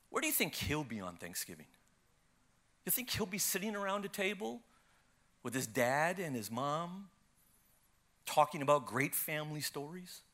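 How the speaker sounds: hushed, unhurried questioning; imitated divine whisper. Spirit of God whispering to a man's heart, soft and hushed. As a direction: speak softly into someone's heart, phrase by phrase. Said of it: "the Spirit of God whispered to my heart".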